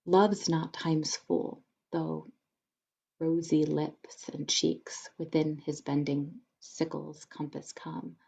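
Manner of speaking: put-on a modern-accent poetry recital; poem reading. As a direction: read the sonnet thoughtfully in a modern accent. Reads the sonnet aloud.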